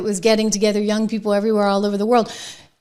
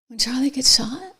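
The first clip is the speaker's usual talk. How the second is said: incredulous whispered question; appalled whisper; 3 semitones higher than usual. Real, not acted. Host appalled at the debater laughing, in a whisper. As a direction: whisper it in disbelief.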